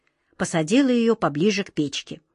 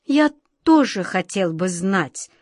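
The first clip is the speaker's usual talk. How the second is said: hesitant; slower than usual. Acted. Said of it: "нерешительно начал волшебник Алёша".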